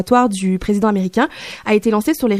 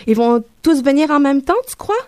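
anxious local in a put-on Québécois accent, pitched up; exaggerated Québécois accent; 4 semitones higher than usual. Claustrophobic Quebecer seeking reassurance about immigrants, exaggerated Québécois accent. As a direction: caricature a worried Québécois accent. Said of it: "si mon accent, euh, québécois".

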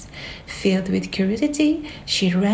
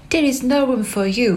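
fast, higher shout; shouted Hatter; 4 semitones higher, faster than usual. Acted. Mad Hatter to Alice at the table, fast shout. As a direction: rush the words out madly. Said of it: "shouted the Mad Hatter".

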